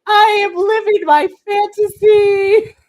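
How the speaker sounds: slow, high, loud dreamy gush; giddy fan overjoyed at the match news; excited. Retold or imitated. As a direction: savour every word like a dream come true. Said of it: "And I'm like".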